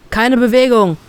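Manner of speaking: a man halting the escape; Schrei eines Mannes. Acted. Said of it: "schreit plötzlich ein Mann". (etwas lauterer Befehlsruf)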